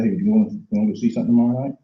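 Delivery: fast, blurted invitation; rushed pushy invite. Acted. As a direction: rush it out like a nervous recruiter. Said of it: "walk up to somebody and say".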